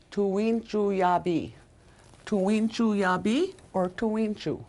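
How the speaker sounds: tuwinchu with the n nasalized, vowels through the nose. Shown as a demonstration. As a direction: let the n in tuwinchu hum nasally. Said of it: "that's a nasalized N".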